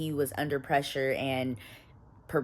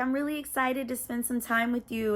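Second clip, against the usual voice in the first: put-on girlfriend voice; 7 semitones higher than usual. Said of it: "she's like".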